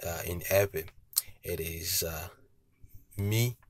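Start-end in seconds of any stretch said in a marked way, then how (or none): 3.2-3.6 "mi" held up on a high tone. Shown as a demonstration. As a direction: lift "mi" into a high intonation. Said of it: "high intonation".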